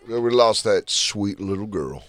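put-on slow, drawn-out country singer accent; mock country voice. Quoting the singer's tweet in a mild country accent. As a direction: lean into a lazy country accent. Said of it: "he says it in a country voice".

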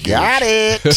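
put-on high, gleeful little-kid cry; retold childish triumph; excited kid. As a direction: pitch it up like a thrilled seven-year-old. Excited kid voiced in a story.

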